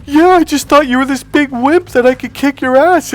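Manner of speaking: loud, high-pitched imitated bawling; hammed-up tearful outburst; mock hysterical crying. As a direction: wail it like a sobbing girlfriend. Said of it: "Why are you crying".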